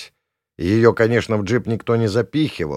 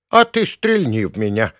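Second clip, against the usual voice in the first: challenging; 2 semitones higher, 4 dB louder than usual. Acted. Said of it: "с вызовом бросила она".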